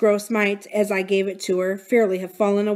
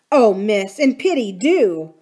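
a louder pleading outburst; louder pleading cry; breaking out, pleading; 6 dB louder, slower than usual. Acted. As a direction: burst out begging her to act. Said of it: "my friend broke out".

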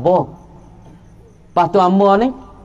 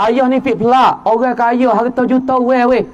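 raised lament; 3 semitones higher than usual. Retold or imitated. Preacher voicing a dying rich man's child, raised. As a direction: cry the words out to the crowd. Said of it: "dia kata".

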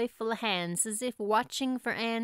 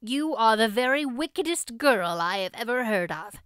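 scolding; 4 dB louder than usual. Acted. Marilla scolding Anne.

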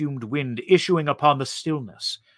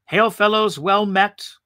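a hint of a jolly human greeting, higher; lightly mock the cheerful slogan; hearty greeting; 7 semitones higher, 3 dB louder than usual. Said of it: "one of their terms".

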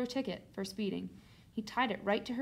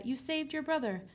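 higher-pitched praise; delighted mother; 6 semitones higher than usual. A narrator's reading. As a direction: gush a little over the child. Mother praises returning daughter.

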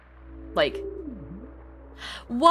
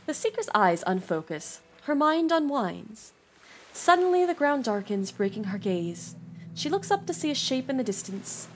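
story narration. A narrator's reading. Reading game story text aloud.

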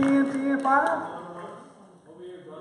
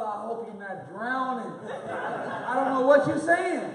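laughing; slower than usual. Retold or imitated. Retelling joke, laughing through quote.

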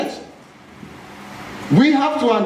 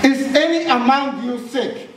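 "sick?" lifted as a real question, pitch a bit higher; questioning tune; 5 semitones higher than usual. Shown as a demonstration. Preacher reading scripture to the church, marking the question on "sick?". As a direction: read it out as a genuine question, rising on "sick?". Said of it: "Note the question mark".

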